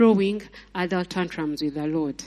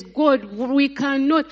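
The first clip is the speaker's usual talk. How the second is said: slow, pleading lament; mock wailing plea; 4 semitones higher, slower than usual. Preacher imitating the Israelites wailing to God, slow mock lament. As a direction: drag it out like a desperate mourner. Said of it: "weeping, removing clothes".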